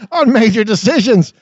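real laugh while rereading the phrase; laughing through it. Real, not acted. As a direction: giggle your way through the retake. Breaks up rereading flubbed line.

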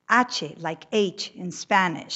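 put-on slow, shaky old nun; puzzled old nun. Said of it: "puzzled, with a shaky voice".

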